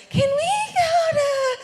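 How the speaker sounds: high, drawn-out begging voice; exaggerated little pleading whine; mock pleading. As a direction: wheedle it slowly, way up high. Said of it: "use that tone of voice".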